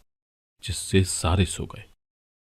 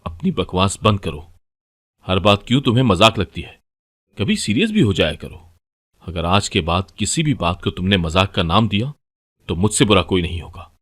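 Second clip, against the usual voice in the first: louder, furious husband snapping at his wife; angry shout; 5 dB louder than usual. Acted. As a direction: yell it at her, losing his temper. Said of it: "और चिल्लाकर बोला".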